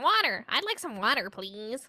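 exaggerated American "water", starting high and loud; mocking American accent. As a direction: imitate people mimicking an American accent. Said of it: "so everyone's like".

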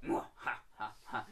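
demonstrated villain's "mwah-ha-ha"; mock evil cackle; evil laugh. Shown as a demonstration. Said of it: "you know, the evil laugh".

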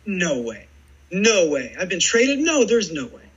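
mock shock at being traded; retold disbelief. Player told he's traded by manager, rising disbelief. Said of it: "I was just in disbelief".

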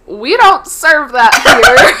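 high bright polite service voice; chirpy fast-food counter politeness; customer service voice. Retold or imitated. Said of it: "In my high-pitched customer service voice".

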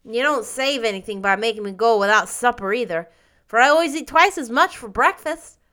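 scornful. A narrator's reading. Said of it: "he said scornfully".

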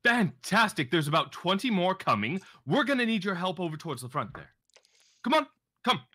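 high, pushy call for help; urgent rallying. Acted. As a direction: act out hustling someone along, insistently. Acted urgent summons to guard.

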